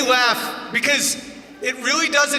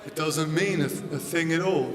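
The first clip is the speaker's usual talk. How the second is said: mumbled British voice; 5 semitones lower, 7 dB quieter than usual. Retold or imitated. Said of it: "people that are like".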